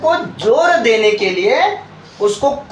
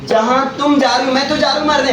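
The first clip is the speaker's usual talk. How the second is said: snappy retort; 3 semitones higher than usual. Pretend. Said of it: "पलट के जवाब देते हैं".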